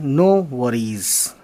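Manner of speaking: no worries said slowly, each word clear. Shown as a demonstration. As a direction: stretch out no worries for the learner. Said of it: "आप ये ध्यान रखिएगा". (no worries को धीरे और साफ़ बोलिए)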